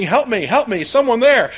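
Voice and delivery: mock shout. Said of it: "he starts shouting".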